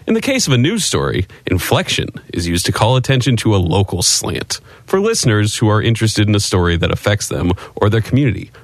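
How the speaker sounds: grand, over-inflected textbook reading; old radio announcer read. Acted. Cohost reads the beginners' book in announcer style. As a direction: read it like a vintage broadcasting manual. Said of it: "who used to read radio ads".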